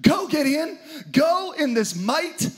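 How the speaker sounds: a hint of a commanding angel; lightly voiced angel sending Gideon out; grace-filled angel. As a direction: urge him on gently but firmly. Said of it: "The angel turns to him and says".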